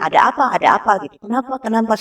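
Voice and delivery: lightly imitated parent talking to a child; a hint of baby-talk questioning, lifted in pitch; child-directed talk. Mother asking her crying child what happened, light child-directed talk. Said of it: "sambil pakai bahasa ke anak-anak dia".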